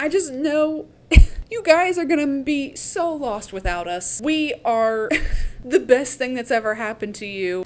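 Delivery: hammed-up weepy speech, starting high and loud; fake-sob through it with laughs breaking in; mock crying. Cashmere crying to the Capitol in her interview, mock crying. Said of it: "Cashmere starts crying".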